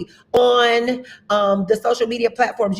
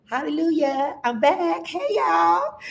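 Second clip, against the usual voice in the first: high, bright call-out to viewers; excited greeting; 7 semitones higher, 5 dB quieter, slower than usual. Real, not acted. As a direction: sing out the welcome back. Greets viewers after her sabbatical.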